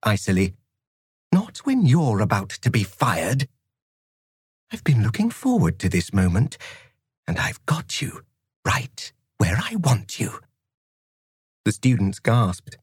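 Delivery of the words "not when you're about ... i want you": cutting threat, half-whispered at the end; cold fury. Acted. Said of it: "she whispered, icily".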